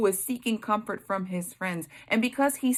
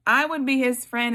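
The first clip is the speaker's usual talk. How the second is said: higher and louder, stressing "I"; emphatic; 4 semitones higher, 5 dB louder than usual. Shown as a demonstration. Preacher insisting she would befriend Job, emphatically. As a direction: declare it boldly the second time.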